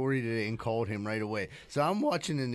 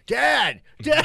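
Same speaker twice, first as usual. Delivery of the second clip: higher, louder call for dad; mock yell for dad; 10 semitones higher, 9 dB louder than usual. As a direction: shout it across the house like a panicked son. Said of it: "starts yelling".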